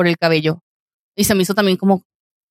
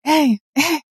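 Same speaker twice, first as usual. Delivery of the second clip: high, drawn-out mock catcall; a tow-yard worker catcalling a passer-by; 8 semitones higher, much slower than usual. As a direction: lay on a slow, flirty catcall. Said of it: "me gritó".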